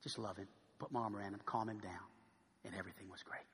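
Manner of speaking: soft, low, calming; gentle. Retold or imitated. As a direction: quietly soothe a hurt friend. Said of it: "I just spoke gently to him".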